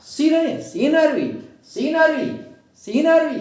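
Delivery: सीनरी with SEE high and loud; सीनरी said SEE-na-ree, high-pitched start; stress on first syllable. Shown as a demonstration. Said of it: "like this".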